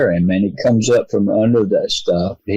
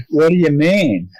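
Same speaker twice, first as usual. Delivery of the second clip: puzzled question, pitched higher; confused; 6 semitones higher than usual. Retold or imitated. Father returning from the woods to friends, puzzled and higher. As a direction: retell the baffled question, lifting the voice up. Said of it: "I was confused".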